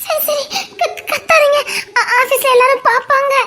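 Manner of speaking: giggling plea to stop; laughing hush. Real, not acted. Woman giggles, begging him not to shout in office.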